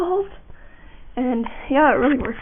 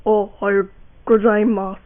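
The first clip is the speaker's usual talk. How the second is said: too-high voice; 3 semitones lower, 3 dB louder than usual. Shown as a demonstration. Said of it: "I sound stupid".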